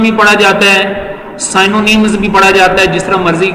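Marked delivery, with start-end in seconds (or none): 1.4-2.2 سائنونیمز said sai-no-nimz, a long ai and a final z; "سائنونیمز" with sai at the start and nimz at the end; English-style pronunciation. Shown as a demonstration. Teacher showing the English pronunciation of "سائنونیمز". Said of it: "دو تین قسم کی pronunciation".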